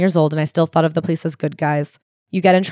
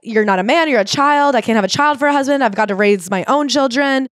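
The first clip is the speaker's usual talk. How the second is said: higher-pitched mock yell at a husband, half-hearted; hammed-up scolding cry, pitched up; retold scream; 5 semitones higher than usual. Mom scolding her drunk husband after the fire, mock yell. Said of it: "screaming at him".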